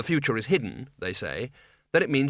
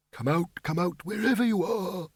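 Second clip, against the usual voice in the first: mad cheerfulness; 7 semitones higher than usual. A narrator's reading. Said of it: "his voice trembling with mad cheerfulness".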